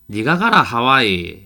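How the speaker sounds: loud, blunt, rough Korean regional dialect. Giving an example of blunt, rough-sounding speech: rough regional dialect. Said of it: "사투리는 누구나 알아듣는 것은 아니거든. 그래서 좀 투박하다".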